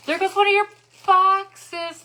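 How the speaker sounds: loud, high, slow call. Retold or imitated. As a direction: sing it out as the box blows away. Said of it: "I was like".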